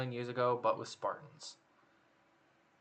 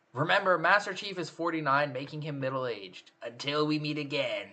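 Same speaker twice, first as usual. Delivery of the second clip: slightly hammed-up villain sign-off, pitch lifted at the start; Skeletor; 2 semitones higher than usual. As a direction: attempt a rough cartoon-villain impression. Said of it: "Please read this in a Skeletor impression".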